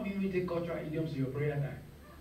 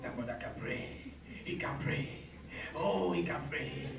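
admiring gushing; 6 semitones lower, 6 dB quieter than usual. Retold or imitated. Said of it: "they say".

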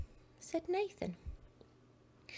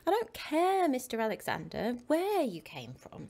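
put-on cross boy; 3 semitones higher, 5 dB louder than usual. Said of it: "said Nathan".

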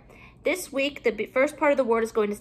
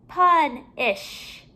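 PUNISH with a break before "ish", higher; ending separated; 4 semitones higher than usual. Shown as a demonstration. Teacher comparing word endings for pupils, final syllable separated. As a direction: split PUNISH in two and let it fall.

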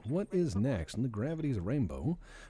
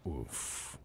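normal talking voice

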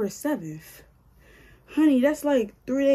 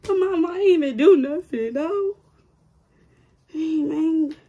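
higher, louder frustrated cry; exasperated outburst; 7 semitones higher, 7 dB louder than usual. Real, not acted. Scolding a stubborn bump in her hair, an exasperated cry. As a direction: throw up your hands at the stubborn hair.

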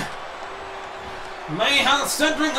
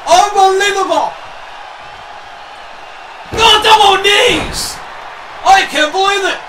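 high-pitched, excited disbelief; amazed commentary; 4 semitones higher than usual. Real, not acted. Commentator calling double knees, amazed and excited. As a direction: call the move in amazement.

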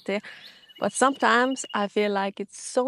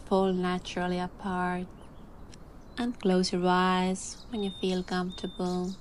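calm voice. Real, not acted. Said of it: "I'm gonna dive into my calm voice now".

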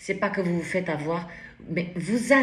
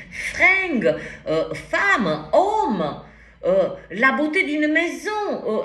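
laughing; 7 semitones higher, 5 dB louder, slower than usual. Real, not acted. Laughs listing superficial beauty.

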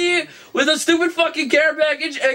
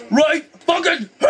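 raging gamer; 4 semitones higher than usual. Real, not acted. Raging at game.

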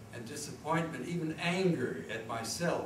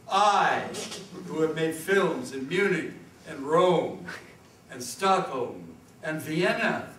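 grandiose declaiming; 4 dB louder than usual. Acted. Grandiose list of his achievements.

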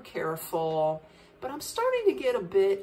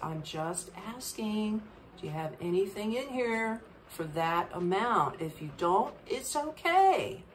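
talking calm; 3 dB quieter than usual. Retold or imitated. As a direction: soothe her down gently. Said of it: "I try to talk calm to her".

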